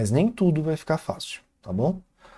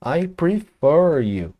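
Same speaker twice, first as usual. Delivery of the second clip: slow demo; 3 semitones higher, 3 dB louder, much slower than usual. Shown as a demonstration. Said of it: "por exemplo, a palavra".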